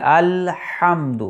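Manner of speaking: الحمد drawn out very slowly, the ح from the throat; slow recitation demo. Shown as a demonstration. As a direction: stretch each sound of الحمد. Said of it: "عین کا مخرج". (حلق سے ح کی ادائیگی)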